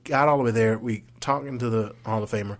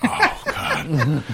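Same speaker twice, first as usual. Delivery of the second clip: laughing disbelief; 5 semitones higher, 5 dB louder than usual. Retold or imitated.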